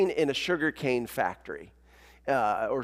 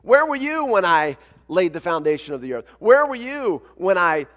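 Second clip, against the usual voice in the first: lightly acted God, raised and emphatic; insistent, louder questioning with a hint of divine challenge; God questioning Job; 5 semitones higher, 6 dB louder than usual. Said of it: "God for two chapters asking Job question after question".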